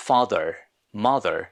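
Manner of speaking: "father" "mother" ending in a plain vowel with no R; British non-rhotic. Shown as a demonstration. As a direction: drop the final R in "father, mother". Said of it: "British ইংলিশে র এর উচ্চারণ হয় না". (শেষের র বাদ দিয়ে "father, mother")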